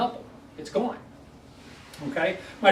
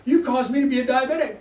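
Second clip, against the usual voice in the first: retold fury; 5 semitones higher, 5 dB louder than usual. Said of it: "He's furious".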